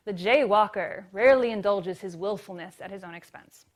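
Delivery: a hint of a vintage newsreel announcer; mock-serious old film narration; old-time movie voice. Shown as a demonstration. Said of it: "old-time movie voice 'cause I think it's so silly".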